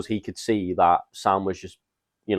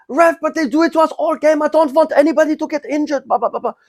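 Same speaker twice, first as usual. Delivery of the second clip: whiny mock protest; 8 dB louder than usual. Imitating sent-off player pleading.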